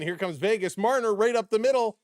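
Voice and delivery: real thrill of a hockey goal, shouted; excited goal call. Real, not acted. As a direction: call the goal at the top of your lungs. Calling a power play goal.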